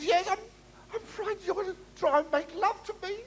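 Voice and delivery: high, tearful mock girl's voice; frightened girl. Comic telling: girl fears a pass, high mock sob. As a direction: whimper it, a scared young woman.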